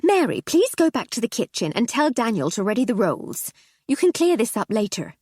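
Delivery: brisk lady of the house; commanding hostess. Acted. Hostess gives orders.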